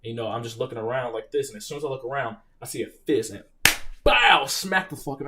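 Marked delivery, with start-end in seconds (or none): 4.0-5.3 loud, slow bow of a punch landing; a hammed-up punch noise; mock punch sound. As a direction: smack out the hit like a sound effect. Reenacting getting punched.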